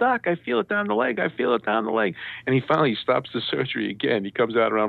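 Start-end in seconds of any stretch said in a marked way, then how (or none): 0.0-2.2 mock very high, hollered-out shout. Retelling a surgery where he felt pain: imitating himself yelling. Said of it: "I'm yelling".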